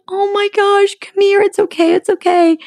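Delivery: high cooing it's okay; tender coaxing. Retold or imitated. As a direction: comfort a wet little chick. Coaxing the found chick.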